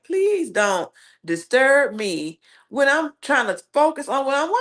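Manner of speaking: slow, drawn-out Please don't disturb me; slow, emphatic request. Real, not acted. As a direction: stretch each word to make the boundary clear. Emphatic plea to would-be interrupters.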